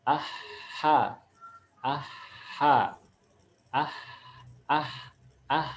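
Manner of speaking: "aha" with a long H rasped from mid-throat. Shown as a demonstration. Teacher drilling pupils on the letter, "aha" with mid-throat H. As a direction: hold the H of "aha" in the middle of the throat. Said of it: "dia di tenggorokan bagian tengah".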